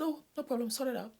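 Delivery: quoting him. Retold or imitated. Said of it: "He said".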